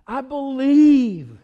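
loud, stretched declaration; emphatic acted cry. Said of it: "he's crying out".

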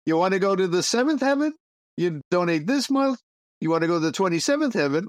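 a hint of a hard-sell huckster; mock advertising pitch. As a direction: sell heaven like a late-night ad. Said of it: "a little advertising here".

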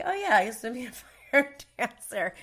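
offhand, casual imitation of Tony; nonchalant. Imitating Tony's casual brag to the crew, nonchalant. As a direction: toss it off like it's nothing. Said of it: "He just said it so, like, nonchalantly".

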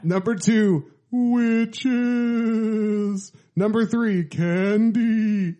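lightly hammed countdown announcer; SNL announcer. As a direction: present each number like a late-night show host. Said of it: "Why am I doing like the S N L announcer?".

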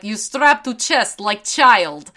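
slow, mock-Russian delivery; Russian accent. Retelling a silly bit with a friend, in a Russian accent. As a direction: put on a cartoonish Russian accent. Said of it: "only talking in Russian accents".

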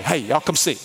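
folksy Louisiana call to come look; lightly played-up Louisiana accent. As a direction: call neighbors over, Louisiana style. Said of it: "We say that in Louisiana".

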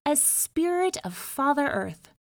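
a grand river spirit offering a favor; solemn spirit Tombo; fish spirit. Acted.

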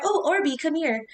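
high, sweet pet-calling voice; calling a cat. Pretend. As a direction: coax the cat over.

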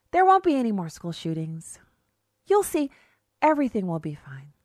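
a hint of a dreamy naive voice; mock naive idealist. Mocking gun-control supporters with dreamy utopian promises. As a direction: sell the utopia with mock wonder. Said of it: "Yes, that's how they talk".

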